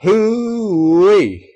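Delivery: very high, loud country whoop; the whole room cheering, one loud southern hoo-wee; crowd whoop. Acted. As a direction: holler it out with relief. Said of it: "let out a single word".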